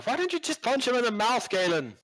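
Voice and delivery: high-pitched villager heckling; background heckler. Acted. Somebody in the background goading Galen, high heckling. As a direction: pitch it way up as a voice from the crowd.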